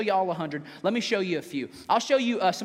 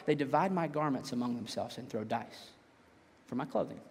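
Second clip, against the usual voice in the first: low, quiet, measured psalm reading; solemn scripture reading; 7 semitones lower, 8 dB quieter than usual. A narrator's reading. Pastor reads the psalm to the congregation, solemn and quiet.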